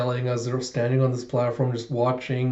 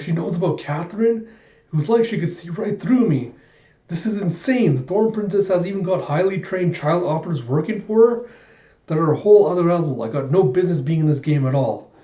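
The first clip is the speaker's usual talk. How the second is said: mock panic, voice raised in pitch; freaking out; 4 semitones higher than usual. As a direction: babble in acted alarm and disbelief. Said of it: "the waiter just freaking out".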